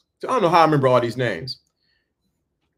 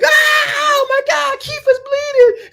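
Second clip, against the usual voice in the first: high screaming panic, far higher; panicked kids yelling; crowd shouting. Retold or imitated. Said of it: "Everybody's like".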